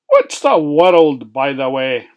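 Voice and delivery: eager question. Acted. Johnny asks eagerly.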